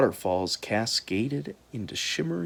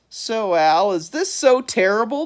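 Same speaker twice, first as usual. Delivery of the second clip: high bird voice; 9 semitones higher, 5 dB louder than usual. A narrator's reading. Large bird asks.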